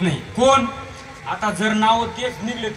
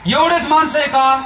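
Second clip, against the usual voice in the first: raised pitch, pressing for an answer; insistent repeated question; 3 semitones higher than usual. Real, not acted. Preacher asks the silent congregation about the village, insistent. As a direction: press the crowd for a reply.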